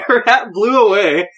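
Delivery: high, laughing through the words; real amusement breaking into the telling; laughing while telling. Real, not acted. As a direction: crack up mid-story. Laughing at her own story.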